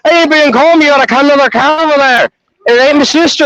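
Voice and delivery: lightly voiced combative Irishman; mean little Irish cat. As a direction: play a cat spoiling for a fight. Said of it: "he's a mean little Irishman".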